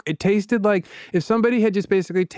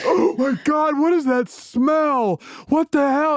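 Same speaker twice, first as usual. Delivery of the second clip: put-on much higher, shocked little kid; disgusted kid voice; 11 semitones higher, slower than usual. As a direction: squeal it like a grossed-out five-year-old. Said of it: "I was like gasps".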